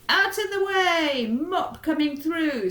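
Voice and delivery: high, loud mouse shouting a warning; excited shout. Acted. Mouse charging through the house with his mop, shouting high and loud. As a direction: clear the path, mop coming.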